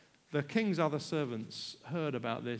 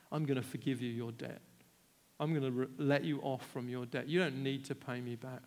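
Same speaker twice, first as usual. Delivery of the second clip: gentle forgiveness; 5 semitones lower, 3 dB quieter than usual. Acted. King forgives the debt.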